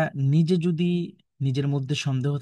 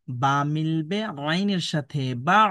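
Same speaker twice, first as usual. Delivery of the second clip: slow recitation demo; slower than usual. Shown as a demonstration. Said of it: "দেখুন এইভাবে উচ্চারণ করবেন".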